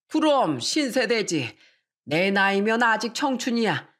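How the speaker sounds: lightly voiced elder rallying the family; a hint of a playful old dad; jovial father. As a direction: cheer everyone on as the proud father.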